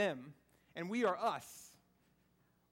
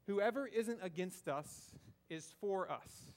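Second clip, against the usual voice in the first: slow, deliberate quote; 3 semitones lower, slower than usual. Retold or imitated. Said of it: "because he says this".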